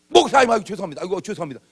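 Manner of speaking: a caught drinker stammering sorry; sheepish apology. Retold or imitated. Drinker jumps up to apologize to the pastor, sheepish.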